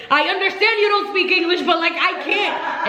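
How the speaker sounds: pleading in frustration to be understood; frustrated. Retold or imitated. To the hotel clerk on the phone, frustrated and pleading. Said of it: "I got so frustrated".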